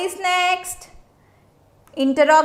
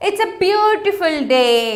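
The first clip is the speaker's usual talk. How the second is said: pleased exclamation. Shown as a demonstration. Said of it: "So how pleasant it is".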